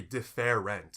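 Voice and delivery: DIFFERENT slowly spelt out with the middle E sounded; slow DIFF-ER-ENT, every vowel pronounced; over-enunciated wrong way. Shown as a demonstration. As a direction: say DIFFERENT in three full syllables. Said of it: "technically an E before the R".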